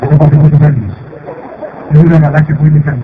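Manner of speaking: loud, booming villain voice; mustache twirling villain. Acted. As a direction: gloat like a proud cartoon villain. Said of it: "Tiene risa malvada".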